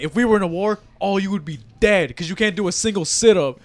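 retold annoyed teacher rant; pissed-off gym teacher. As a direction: scold the class like a fed-up coach. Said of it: "he'd just be pissed the whole time".

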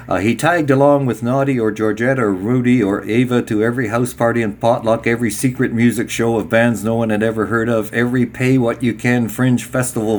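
run-on reading with hardly a pause; breathless list-reading of a book passage; read in one breath. Real, not acted. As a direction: reel off the long list as one unbroken sentence. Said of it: "It's all one breath".

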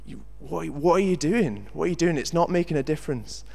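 half-hearted retold shout; mock shout. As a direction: imitate a man calling out in disbelief. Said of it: "he kinda shouts".

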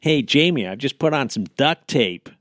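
playful American impression; casual put-on American voice; mock American accent. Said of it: "If you're American".

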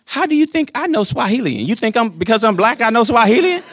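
lightly hammed-up disbelief; mock indignation. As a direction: play offended for the joke. Joking retort to son's partner.

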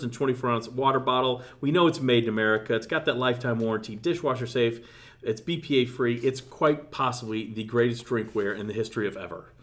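upbeat sponsor ad read. Acted. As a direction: pitch the product like an ad. Reads a sponsor ad.

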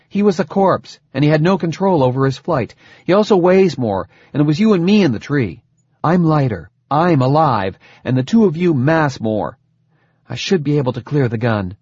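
lightly voiced lieutenant making her case; insistent lieutenant. Voices Sagan arguing her plan.

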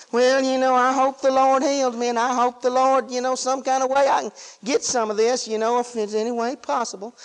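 half-hearted, noncommittal hoping; mealy-mouthed. Acted. Preacher mocking a fella hoping to get healed, mealy-mouthed. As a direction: mumble a timid, wishy-washy wish. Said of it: "just kinda mealy-mouthing around".

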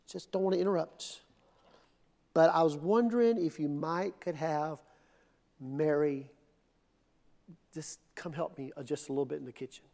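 soft, hesitant, mousy little ask; timid mock request. Martha imagined timidly asking Jesus for help, softly and hesitantly. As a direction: tiptoe the request apologetically. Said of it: "I don't think she went in and go".

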